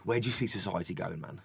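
a hint of a spaced-out late-night philosopher; stoner guy quote. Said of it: "said to me".

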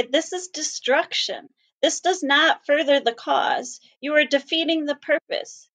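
a hint of scolding voices in the crowd; mildly mock the critics' lecture; quoting critics. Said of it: "People who look like me say".

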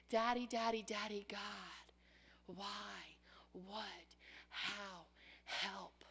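prayer dropping to a soft helpless plea; fading plea. Retold or imitated. Believer praying to God, fading into a soft helpless plea. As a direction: trail off into helplessness.

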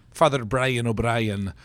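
put-on slow playful Irish accent. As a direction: put on a jokey Irish brogue. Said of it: "there's my Irish accent".

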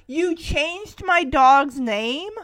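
drawn-out disbelief; mock outrage. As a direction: imitate an indignant kid, stretching the words. Max confronts boy who renamed dog.

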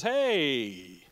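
slow, drawn-out proclamation with each new stretched; lightly voiced God revealing a hidden plan; preacher voicing God, slow and grand; voice of God announcing. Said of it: "he comes along and he says".

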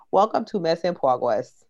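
PROGRESS said as "pwogwess"; like little girl. Retold or imitated. Host now talks like TikTok girl, lightly childlike pronunciation. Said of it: "I'm talking like that little girl".

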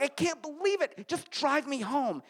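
lightly voiced hurt girlfriend; mock upset girlfriend. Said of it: "She's like".

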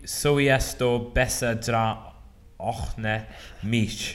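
slow, halting try at a German accent; attempted German accent. Shown as a demonstration. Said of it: "Do the accent".

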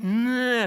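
dismissive "nyah" noise; mock apathetic groan. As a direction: groan like a listless churchgoer. Mimicking an apathetic church.

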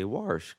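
"warsh" with an R; "warsh" the way Mom says it; Baltimore warsh. Retold or imitated. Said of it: "I used to say".

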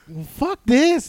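high, very slow resigned sigh of a line; drawn-out give-up, done with it all. Retold or imitated. Friend retelling crying in the car, slow and resigned. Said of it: "And I was just like".

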